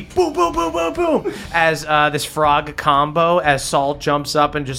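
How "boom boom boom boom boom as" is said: quick high-pitched booms; booming sound effect. Acted. Game master voices the blows landing, booming effect. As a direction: imitate a string of hits, pitched up. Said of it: "And you see".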